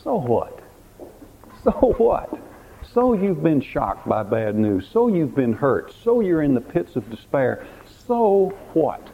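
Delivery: a taunting devil brushing off pain; mocking Satan. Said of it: "Satan comes and he whispers to you".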